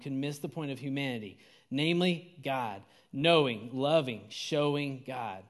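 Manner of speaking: deliberate, weighty quote reading; measured sermon quotation with pauses; slow reading. Real, not acted. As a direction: read it slowly so each phrase lands. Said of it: "I'm gonna read it slow".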